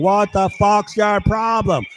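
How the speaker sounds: lightly voiced angry father, words stretched; imitated father. Neighbor father to his family, slow mock outburst. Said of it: "the father's going".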